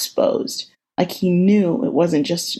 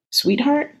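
high worried sweetheart; concerned call; 8 semitones higher than usual. Acted. Steve finds her crying.

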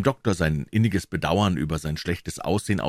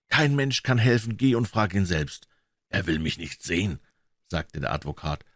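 a lightly voiced, higher tired doctor; weary old doctor; 3 semitones higher than usual. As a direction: plead wearily as a dying man. Lanyon speaks.

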